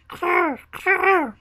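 loud, high rolled coo; wood pigeon cooing. A narrator's reading. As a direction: end on a loud trilled bird cry. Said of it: "said the wood pigeons".

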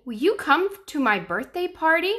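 put-on high, loud little boy voice; child voice. Danny invites dinosaur.

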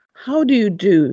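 put-on polite greeting in a mild English public school accent; plummy public school accent. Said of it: "in his deliciously plummy public school accent".

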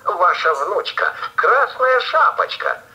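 put-on wolf faking a high thin girl's voice. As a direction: squeak it out like a sly wolf playing a girl. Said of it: "отвечает волк тоненьким голосом".

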